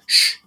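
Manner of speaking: a short, sharp shush. Retold or imitated. German friend shushes the tourist during the speech, a sharp hiss. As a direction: hush him without looking away.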